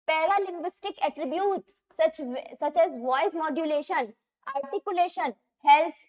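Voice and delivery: very slow, careful reading of the question. Shown as a demonstration. Teacher slowly reading a test question aloud. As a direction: let every term land.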